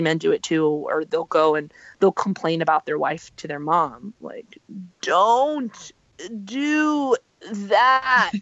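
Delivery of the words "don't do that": "don't do that" high and loud, each word hit; emphatic. Real, not acted. Warning spouses against complaining to parents, emphatic. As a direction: lay down the law on "don't". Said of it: "in a more emphatic way".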